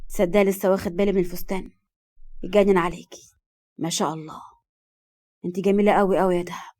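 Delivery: a hint of a smiling compliment. A touch of smile, complimenting Dahab on her dress. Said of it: "وقال بابتسامة".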